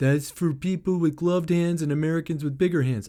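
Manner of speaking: mock patronizing, very condescending talking-down delivery. Quoting someone from the comments, in a mock-condescending tone. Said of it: "in a very condescending tone".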